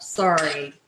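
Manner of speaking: a playful Canadian "Sorry". Shown as a demonstration. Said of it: "Can you hear the Canadian in me?".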